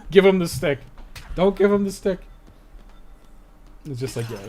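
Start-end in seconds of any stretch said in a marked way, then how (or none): 0.1-0.8 louder, higher call to hand over the stick; playful mock order, louder and higher; mock command. Mock game instruction voiced. 1.3-2.2 higher, in a different put-on voice, telling them not to; lightly voiced counter-order, higher pitched; mock contrary voice. Contrary mock instruction, other voice.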